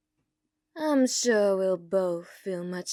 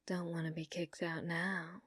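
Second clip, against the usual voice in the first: whisper; 5 semitones lower, 13 dB quieter than usual. Acted. Whispered aside handing over gun.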